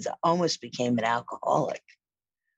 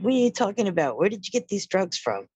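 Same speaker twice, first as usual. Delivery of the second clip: horrified mother; 6 semitones higher than usual. Retold or imitated.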